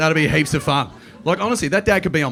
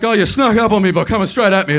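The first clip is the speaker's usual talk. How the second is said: louder, higher startled pug; startled little dog caught off guard; mock startled pug; pug's voice; 5 semitones higher, 8 dB louder than usual. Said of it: "It's like".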